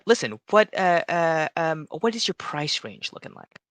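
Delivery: high, eager little shopkeeper voice; halfling shopkeeper. Acted. Halfling shopkeeper asking the customer what they want, high and eager. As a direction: pitch it up like a keen halfling salesman.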